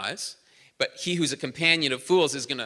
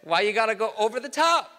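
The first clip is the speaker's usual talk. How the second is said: exasperated; 5 semitones higher than usual. Retold or imitated. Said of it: "And you're like".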